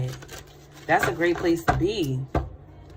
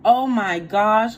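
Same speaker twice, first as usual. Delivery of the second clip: slow, loud delighted gasp of joy; light up at seeing a friend; excited greeting; 3 semitones higher, 7 dB louder, slower than usual. Real, not acted. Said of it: "greeting a viewer excitedly".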